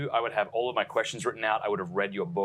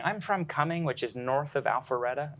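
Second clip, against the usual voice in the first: imitation American accent, slightly cartoonish; put-on American accent; 3 semitones higher than usual. Shown as a demonstration. Host explaining a hometown to people, mock American accent. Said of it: "I have to add an American accent".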